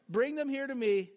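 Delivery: playful and knowing, as if with a wink. Shown as a demonstration. Jesus to his disciples, a playful knowing wink. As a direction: tease them gently, you know what's coming. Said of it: "like that".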